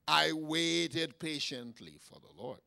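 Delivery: drawn-out scripture reading; slow, measured reading. Shown as a demonstration. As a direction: read the verse slowly and deliberately. First reading of the verse.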